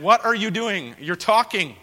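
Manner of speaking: a teacher catching a student chatting; retold scolding. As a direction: scold the girl for talking in class. Teacher confronting talking student.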